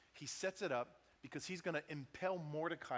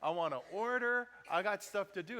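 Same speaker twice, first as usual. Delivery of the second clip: mildly mad, raised demanding voice; retold impatience, pitched up a little; irritated; 3 semitones higher, 4 dB louder than usual. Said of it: "but we're getting mad".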